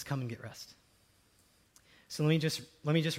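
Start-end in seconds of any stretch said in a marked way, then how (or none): 0.0-0.7 gentle Jesus. Acted. Quoting Jesus softly.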